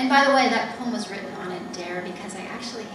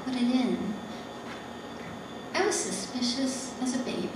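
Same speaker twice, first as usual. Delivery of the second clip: deliberate poem recital in separate phrases; poetry reading; slower than usual. Acted. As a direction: read it as verse, pausing between images. Reads her poem aloud.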